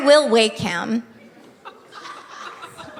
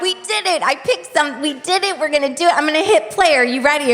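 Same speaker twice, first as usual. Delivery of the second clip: excited cheer; 5 semitones higher, faster than usual. Retold or imitated. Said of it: "I'm like".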